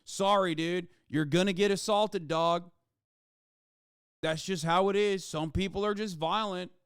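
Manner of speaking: casual shrug of a bro; mock shrugging bro. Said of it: "Let's give it a lighter sentence".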